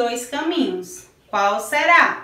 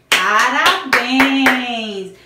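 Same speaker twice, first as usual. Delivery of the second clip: drawn-out cheer; 6 dB louder, much slower than usual. Real, not acted. Cheering young pupils.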